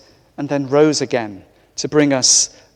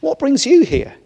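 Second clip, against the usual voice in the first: angel on duty; 11 semitones higher than usual. Acted. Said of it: "the angel on duty says".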